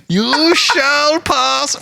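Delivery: high, very slow, theatrical; booming wizard voice. Acted. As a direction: drag out the wizard's command. Botched Gandalf line.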